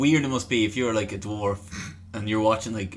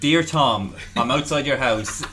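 creepy stalker letter. Acted. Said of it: "I'm going to read an excerpt".

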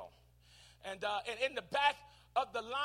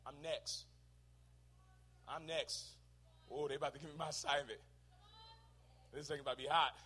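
whisper-eager, sure you're next; hushed excitement; 7 semitones lower, 14 dB quieter than usual. Pretend. Joash waiting in line, softly excited. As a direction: lower and softer, a quiet eager murmur.

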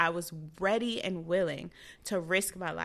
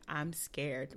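scared; 5 semitones lower, 9 dB quieter than usual. Retold or imitated. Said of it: "I'm afraid right now".

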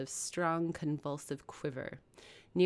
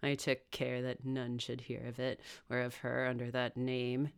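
muttered; 3 semitones lower, 6 dB quieter than usual. Acted. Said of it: "he muttered".

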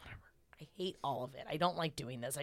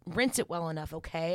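bossy commands; 7 dB louder than usual. Retold or imitated. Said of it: "I can get into this".

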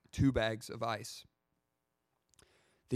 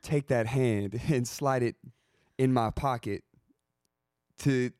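clumsy smooth-talker. Pretend. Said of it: "You're not good at this".

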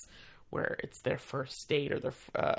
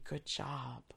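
soft, hushed two words, much softer; retold whisper; 8 dB quieter than usual. Actor in the casket to her, hushed mock whisper. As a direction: pass it on like a secret backstage whisper. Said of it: "he whispered to me".

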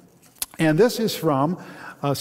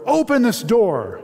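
high, loud roared order; roaring command; 8 semitones higher, 4 dB louder, slower than usual. Acted. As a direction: roar the order at the closed door. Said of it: "Joseph roared".

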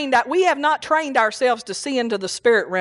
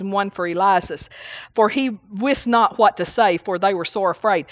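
measured King James reading voice; scripture reading. Acted. Pastor reading scripture to the congregation, steady and measured. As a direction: read the verses out steadily to the church. Pastor reads Mark nine aloud.

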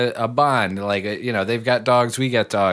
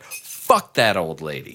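low, slow dismissive curse; muttered curse; 7 semitones lower, slower than usual. Retold or imitated. Venting about the neighbor, slow low curse. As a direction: spit it out slowly. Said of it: "where I'm like".

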